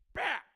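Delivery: high, loud "bah" as he squashes it; a sudden violent yell of a grunt; mock smash grunt. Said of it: "and you're like".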